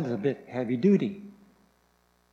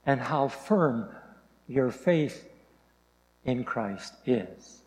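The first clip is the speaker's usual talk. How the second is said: scripture reading. Acted. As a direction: read Paul's words with weight. Reads Paul's letter aloud.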